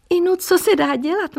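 girl to Miss Mosová, sing-song mock pity; high, sing-song inu. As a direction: chirp it like a worn catchphrase. Girl repeats her phrase.

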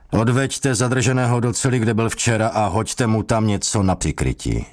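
a smug command through the door; lightly voiced interrogator giving orders.

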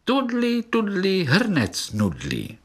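squeaky high tootle that goes wrong; wrong tune, high. A narrator's reading. Little beetle botches the clarinet tune, high and squeaky. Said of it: "ale spletl se".

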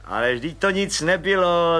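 mildly grinning little man; grinning Pištora. Acted. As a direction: wave the praise off with a grin. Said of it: "zubil se pan Pištora".

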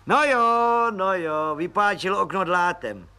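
high, eager voice of a cheeky little policeman; high cheeky detective voice; grinning Pištoras. A narrator's reading. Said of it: "se nadšeně rozhlížel".

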